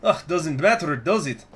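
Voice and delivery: accented, teasing mock wondering; toying with the victim in a put-on voice; mocking soldier. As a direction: pretend to puzzle it out, then dismiss it. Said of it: "He frowned mockingly".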